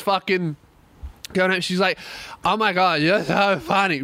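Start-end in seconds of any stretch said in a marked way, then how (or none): 2.4-4.0 lightly imitated drunk fan; real drunk. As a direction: slur it a little, like a gushing drunk. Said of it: "Real drunk".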